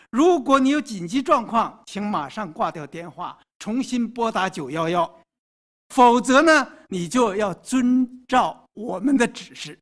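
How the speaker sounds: recorded phone menu voice; robocall. Acted. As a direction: read it like an automated answering machine. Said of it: "天使事先录制好的声音对你说". (电话录音机的语音)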